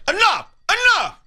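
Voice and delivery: high, loud squawked mimicry; exaggerated copy of an angry guy; mocking imitation. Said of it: "He's like".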